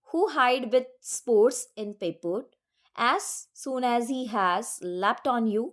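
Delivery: slow, measured reading of verse; poem recitation. Acted. Teacher reading a poem extract to the class, slow recitation. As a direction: read each line slowly and deliberately, like a recitation.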